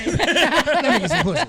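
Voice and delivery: high, loud, laughing crackhead voice; wild high crackhead plea. Shown as a demonstration. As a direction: do a scratchy hustler begging. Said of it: "you gotta say it with the crackhead voice".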